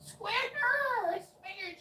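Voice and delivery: high sing-song calls of swinger; repeating swinger. Retold or imitated. Neighbor keeps repeating it to him, high sing-song. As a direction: keep chanting Swinger high. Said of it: "She just keeps going".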